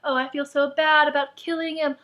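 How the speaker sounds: lightly put-on lament; mock sad whining. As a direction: imitate a heroine feeling sorry for herself. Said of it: "I'm so sad".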